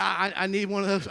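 lightly imitated southern accent; a touch of Kentucky country boy. Preacher quoting his cousin Rick, southern accent. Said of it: "I wish I talked like that".

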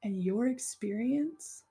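unhurried loving reassurance to a hurt stranger; tender affirmation. Pretend. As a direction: soothe a hurting stranger with love. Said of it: "a total stranger, can say".

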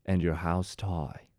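slow, badly faked British accent. Shown as a demonstration. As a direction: draw it out in a shaky attempt at British. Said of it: "not talented enough to do a British accent".

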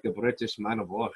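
lightly attempted British accent; a touch of British chest bass, R's not rolled; hint of a chesty British accent. Shown as a demonstration. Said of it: "it's, like, all about having, like, a chest bass".

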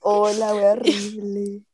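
slow unvoiced whisper; creepy whisper. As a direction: breathe it out like something awful. Reacting to a gross story. (susurro lento y tétrico)

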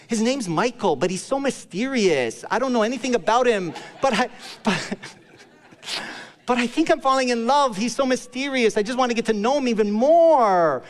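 gushing in a mock lovestruck girl voice, laughing once; swooning girlfriend. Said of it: "And she's like".

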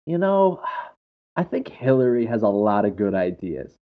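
casual aside with a lifted "You know"; nonchalant. Retold or imitated. Baiting conservatives in a crowd, casually offhand. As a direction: drop it in like small talk. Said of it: "And I would say things like".

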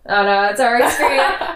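ordinary delivery

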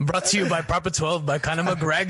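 mock sponsor read in Irish accent. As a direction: announce it with a put-on Irish brogue. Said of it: "a fucking Irish thing".

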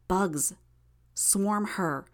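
in little gasping breaths; short of breath. Acted. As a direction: push it out between small breaths. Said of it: "taking lots of little breaths as she said it".

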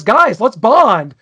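mock-earnest call to the boys; Belding inviting bonding. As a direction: stretch each word like a corny principal. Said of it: "he says".

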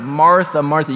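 gentle. Retold or imitated. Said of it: "gentleness and kindness where he cries out".

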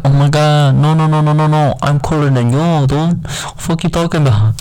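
high, far-off put-on voice of a show-off; bragging tough guy. Joking about how he could talk about himself, a show-off voice. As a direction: brag like you're the coolest guy around. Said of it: "I could be like".

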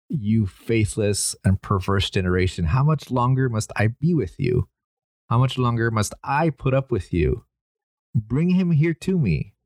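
mildly exasperated reproach, read aloud; frustrated Jesus. Retold or imitated. Jesus rebuking the faithless generation, mildly frustrated. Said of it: "and he is frustrated".

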